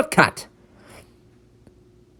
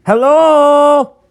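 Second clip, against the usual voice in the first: loud, higher hello over a bad line; shouting into the phone; 8 semitones higher, 7 dB louder than usual. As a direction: call out to be heard on a bad connection.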